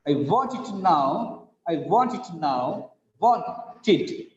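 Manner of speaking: "want it" with "want" stressed; teacher modelling a stressed "want"; stress on first syllable. Shown as a demonstration. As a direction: lean on "want", keeping "it" light. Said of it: "First syllable stressed".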